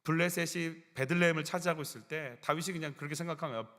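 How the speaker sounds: normal talking voice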